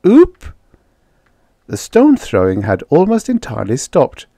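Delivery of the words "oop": very high, loud little hoot; pleading creature call; wistful alien. A narrator's reading. Another native begs nearby for soup, wistful. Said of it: "said a wistful voice near them".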